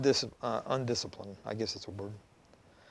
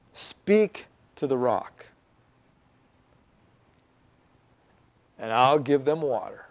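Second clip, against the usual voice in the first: voice of God; 7 semitones lower, 3 dB quieter than usual. Acted. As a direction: give the order low and unhurried. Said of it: "God says to Moses".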